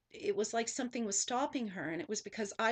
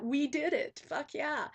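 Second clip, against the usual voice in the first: higher, louder cheer of victory; triumphant shout; 5 semitones higher, 5 dB louder than usual. Shown as a demonstration. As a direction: shout it like you just made it ashore. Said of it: "Like that".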